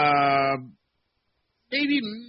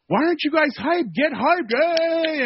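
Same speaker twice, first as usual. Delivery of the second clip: high, loud hype-up yell; mock pump-up shout at the reporters; imitating hyped coach; 13 semitones higher, 3 dB louder than usual. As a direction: mimic the coach firing up the room. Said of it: "he comes in and he goes".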